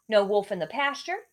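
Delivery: usual speaking voice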